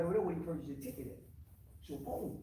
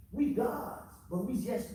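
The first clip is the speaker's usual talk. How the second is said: louder, emphatic declaration; fervent; 4 semitones higher, 4 dB louder than usual. Real, not acted. Man telling friends that we are gods, fervent and loud. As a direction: proclaim it like a revelation. Preaching his belief to friends.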